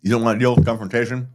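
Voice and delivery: talking around ice in mouth. Real, not acted. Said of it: "I got ice in my mouth".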